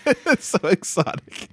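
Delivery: a lightly voiced gushing fan, high and laughing; mock gushing. Friend echoes the mock gush at British charm, laughing. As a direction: echo the swooning fan voice with a laugh.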